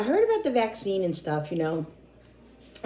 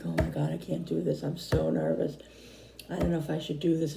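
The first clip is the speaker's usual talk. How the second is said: nervous worry; 5 dB quieter than usual. Retold or imitated. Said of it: "all night I was like".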